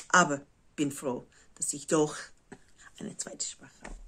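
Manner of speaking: American speaking German; German with an American accent; English accent in German. Real, not acted. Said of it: "mein Deutsch ist nicht perfekt".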